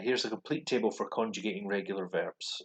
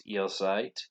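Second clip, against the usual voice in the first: ihr seid slowed right down; slow careful demo. Shown as a demonstration. Teacher reading the verb table, slow clear demo. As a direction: say ihr seid slowly for learners.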